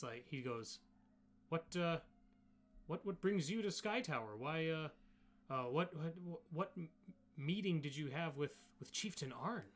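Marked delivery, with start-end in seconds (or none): 1.5-9.6 lightly voiced Goliath, a little higher; hint of an inquisitive Goliath; curious Goliath. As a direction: question the outsider as a halting, curious Goliath. Voices a Goliath questioning outsider.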